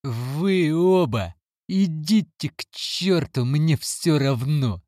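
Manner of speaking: put-on boy screams at both adults; high, dragged-out cry of despair; sobbing shout. A narrator's reading. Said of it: "и закричал".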